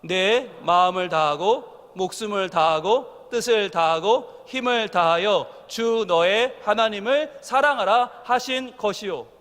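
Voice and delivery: slow, measured unison reading; slow congregational recitation. Real, not acted. Preacher leading the church in reading, slow and measured. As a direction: read scripture together slowly. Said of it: "시작".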